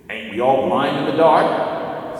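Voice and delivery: slow, scoffing dwarf voice; Diggle's retort. A narrator's reading. Diggle answering Tyrion in the dark, scoffing drawl. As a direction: drawl it back like a stubborn dwarf.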